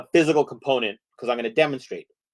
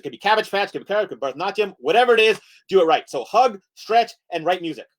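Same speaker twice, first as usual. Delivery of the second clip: rushed, animated presenter; hurried lecture with urgent list intonation; fast mock lecture; 4 semitones higher than usual. Shown as a demonstration. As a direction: race the timer through the key points. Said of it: "that was pretty fast".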